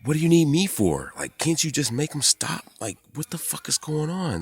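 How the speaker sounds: high, strained mock plea to her; pitching way up, pleading what's going on; high exasperated mock whine; retold exasperated self. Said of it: "and I was like".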